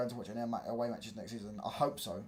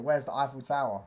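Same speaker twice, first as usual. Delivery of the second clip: a hint of a foreign tourist accent, "Tower" as "Sower"; mock tourist accent; 2 semitones higher, 5 dB louder than usual. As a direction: ask it like a lost foreign tourist. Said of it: "different accent and be like".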